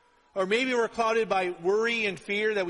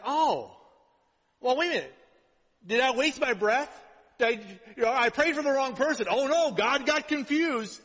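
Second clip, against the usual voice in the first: hammed-up worried self-talk; mock panic; 3 semitones higher than usual. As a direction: play your own silly worry. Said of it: "I was like".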